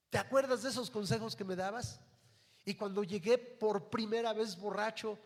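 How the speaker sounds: shouted high and loud, full of blame; furious yelling. Retold or imitated. Condemned son shouting at his mother, furious yell. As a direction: scream the accusation at her through the bars. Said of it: "y le empieza a gritar".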